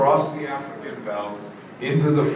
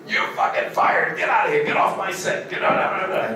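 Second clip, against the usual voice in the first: retold scream; 5 semitones higher than usual. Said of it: "he was screaming at me".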